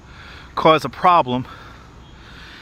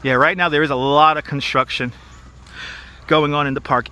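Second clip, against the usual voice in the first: out of breath. Real, not acted. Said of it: "If I sound out of breath".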